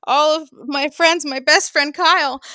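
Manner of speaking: tearful, overwhelmed thanks; crying. Real, not acted. Host thanking all the surprise well-wishers, crying. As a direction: push the thanks out through happy tears.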